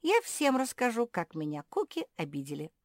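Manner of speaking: loud, high, vengeful declaration; grand, wounded indignation; offended tirade. A narrator's reading. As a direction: pronounce a curse on them all. Offended frog curses the dogs.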